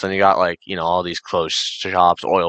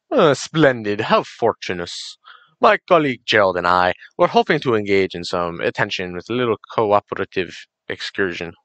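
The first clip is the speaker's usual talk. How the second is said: hammed-up posh British accent; a gamer's shaky attempt at a British gent. Gamer trying out a British accent for a race partner, amateur British. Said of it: "No, I need a British".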